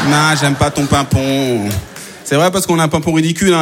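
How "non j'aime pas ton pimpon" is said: dismissive drivers. Acted. Drivers refusing ambulance.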